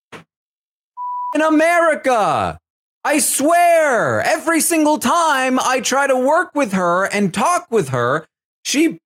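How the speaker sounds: high, slow, whiny frustrated rant; Izzy. Retold or imitated. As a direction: vent like a fed-up houseguest, pitched high and drawn out. Izzy voiced venting to Jared.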